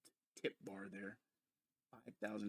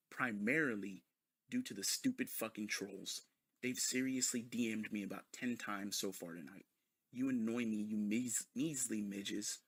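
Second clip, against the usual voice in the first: pompous mock proclamation. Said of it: "Who fucking talks like that?".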